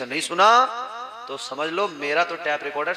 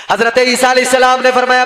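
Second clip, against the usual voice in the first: loud, ringing sermon storytelling; full-voiced preacher narration; preaching; 7 semitones higher, 12 dB louder than usual. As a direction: preach the tale out to the crowd.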